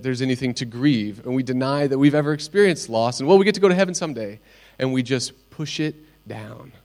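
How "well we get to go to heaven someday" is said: mock pious cliché. Mocking pious brush-off.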